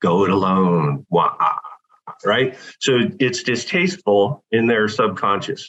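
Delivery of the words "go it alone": eerie, creepy delivery, dropped an octave. Showing how the closing line ends: creepy low voice. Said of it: "I drop my voice down an octave".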